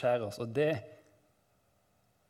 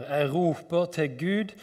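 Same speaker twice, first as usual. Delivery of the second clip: raised, urgent call to God; crying out; 4 semitones higher, 6 dB louder than usual. Acted. Psalmist crying out to God, raised urgent call. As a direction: read it as a mounting cry. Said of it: "Jeg skriker".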